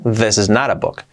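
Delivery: quick, run-together delivery; said fast. Shown as a demonstration. Teacher shows the fast version for learners. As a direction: rattle it off quickly. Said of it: "Dicho rápido".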